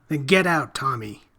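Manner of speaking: loud urgent command; urgent loud plea; urgent shout. Acted. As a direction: shout him out of danger. Detective urges boy to escape.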